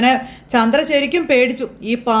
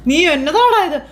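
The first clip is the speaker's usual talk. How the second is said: startled; 2 semitones higher, much slower than usual. Acted. Mother bumps into son in dark.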